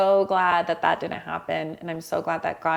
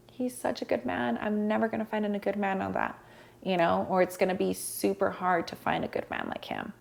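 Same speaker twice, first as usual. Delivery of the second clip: retold grief; 3 semitones higher, 5 dB quieter than usual. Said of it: "when I was in that grief".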